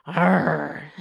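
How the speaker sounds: low whispered pirate growl; a small pirate growl. Acted. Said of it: "Emma growled".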